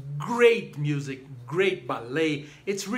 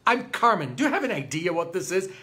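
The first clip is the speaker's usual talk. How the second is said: mildly hammed-up outrage, somewhat higher and louder; indignant; 3 semitones higher, 4 dB louder than usual. Carmen scolding Don José for leaving, mock indignant. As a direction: play an affronted diva telling him off.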